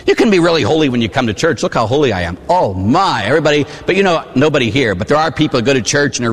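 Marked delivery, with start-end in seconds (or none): 1.6-2.4 mock pious. Mocking churchgoer's piety.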